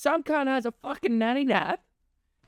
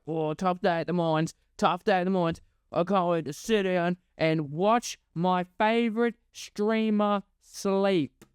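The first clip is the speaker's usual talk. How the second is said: lower, weary mock coal miner; mock tired worker; 4 semitones lower than usual. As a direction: sigh it out like a worn-out miner. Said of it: "you're like".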